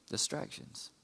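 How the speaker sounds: breathy whispered repeat of the word. Acted. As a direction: let the word drop to a whisper. Preacher repeats key word hushed.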